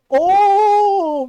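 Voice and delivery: a loud, high gasp of an oh; shocked oh. Retold or imitated. Niece hearing mom curse out uncle, loud shocked oh. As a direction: react as if stunned by what mom said. Shocked at mom's church outburst.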